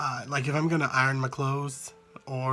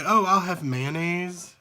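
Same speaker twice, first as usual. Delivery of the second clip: ordering mayonnaise; 3 semitones higher, slower than usual. Shown as a demonstration. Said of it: "if I say".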